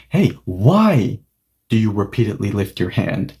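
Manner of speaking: lightly exasperated, pausing after "why"; mild annoyance. Acted. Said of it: "So yes, A is annoyed".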